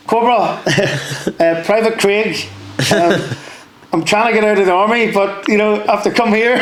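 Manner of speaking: high, timid voice breaking into laughter; nervous young private. Retold or imitated. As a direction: imitate a scared recruit at the corporal's door. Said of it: "it's a scary thing".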